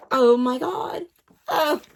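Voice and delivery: mock squeal. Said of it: "I'm just like".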